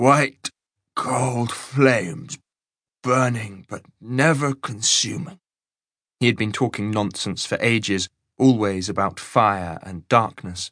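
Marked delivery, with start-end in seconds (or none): 0.0-5.4 slow, slurred words running together. Flid, who has been talking nonsense for ages, slurring. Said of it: "slurred Flid".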